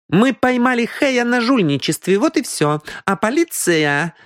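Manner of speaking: high-pitched woman's explanation; explaining young woman. Acted. Аврора explains the cheating to her companion, matter-of-fact. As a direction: explain in a high voice, slowing at the end.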